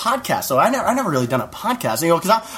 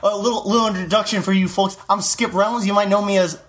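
comedian character voice; 2 semitones higher than usual. Acted. S2 plays comic Skip Reynolds.

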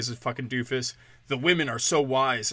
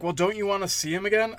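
high mocking imitation of the dog's owner; mimicking her; 8 semitones higher, faster than usual. Mocking her question about seeing the dog, pitched high. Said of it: "she's like".

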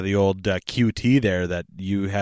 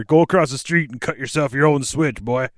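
put-on stern old-school parent; 4 semitones higher, 5 dB louder than usual. Mock old-school parent threatening a switch.

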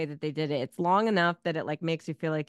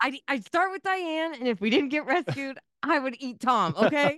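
put-on Boston accent; 8 semitones higher than usual. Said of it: "and it's the Boston accent".

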